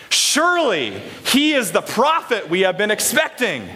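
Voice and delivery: enthusiastic, emphatic group read-aloud; with gusto. Shown as a demonstration. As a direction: proclaim it with some gusto. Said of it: "Let's say it with some gusto, with some enthusiasm".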